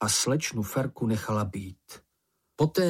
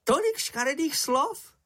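much higher squeaky voice full of wonder; admiring Sniff. A narrator's reading. Sniff calls out to Moomin in admiration, high and squeaky. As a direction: gush in awe at his swearing.

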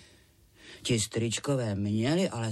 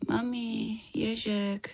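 put-on high child's voice murmuring in a dream; a feverish little girl calling her mum in her sleep; lightly voiced drowsy child; sleepy child; 10 semitones higher, much slower than usual. A narrator's reading.

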